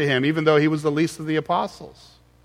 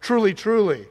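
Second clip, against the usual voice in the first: "Truly, truly" higher, both words stressed; emphatic repetition; 5 semitones higher than usual. Shown as a demonstration. Preacher showing how Jesus doubles a word, emphatic. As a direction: lift and press each "truly". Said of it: "there's an emphasis on that".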